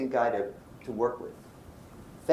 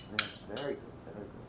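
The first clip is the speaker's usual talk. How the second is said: soft approval fading to a murmur; imitated mild approval; 4 semitones lower, 10 dB quieter than usual. Colleague takes criticism impersonally, imitated mild approval. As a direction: repeat it ever more quietly, as if absorbed.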